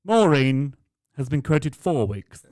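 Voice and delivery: put-on high, slow and loud old dear; old lady voice. Fitter imitating the demanding customer, high and slow. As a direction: drag it out like a fussy pensioner.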